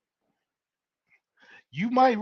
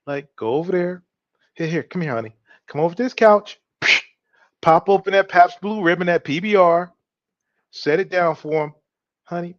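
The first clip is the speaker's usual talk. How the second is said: ultra feminine. Retold or imitated. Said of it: "you gotta go ultra feminine".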